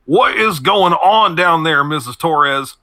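put-on old man calling down from the stairs to his housekeeper, slow and gruff; gruff older man. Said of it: "his gruff voice".

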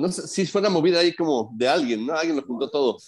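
talking while chewing bread; mouth full. Real, not acted. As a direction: chew and talk at the same time. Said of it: "Estoy masticando un bolillo, perdón".

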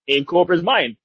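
ordinary talk

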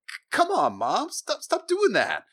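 high, whiny embarrassed son; embarrassed teen. Retold or imitated. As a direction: squirm away from mom's fussing. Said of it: "he gets uncomfortable again".

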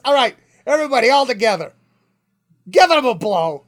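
put-on loud bandleader voice of an old music teacher; rally the whole school band with hammy gusto; older Jewish New Yorker. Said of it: "older Jewish guy who used, y-, from New York".

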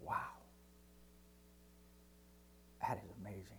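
low, hushed wonder with long pauses; awestruck angels. Acted. Angels seeing sins paid for, awestruck. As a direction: let it sink almost to nothing, in acted awe. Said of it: "And they go".

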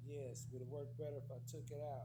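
quiet, distant remote voice; speaking far from the microphone; far from mic. Real, not acted. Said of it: "Sounds like you're far away".

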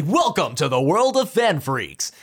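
deep announcer voice, big welcome; fighting game announcer. Shown as a demonstration. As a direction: boom it out like an arena announcer. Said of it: "fighting game announcer-esque".

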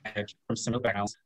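breaking up over a laggy video call; choppy audio dropping out on a frozen call. Real, not acted. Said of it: "You froze for a second".

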